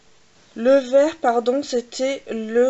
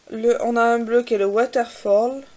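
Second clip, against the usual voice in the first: English accent; 3 dB louder than usual. Real, not acted. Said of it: "Vous aimez mon accent".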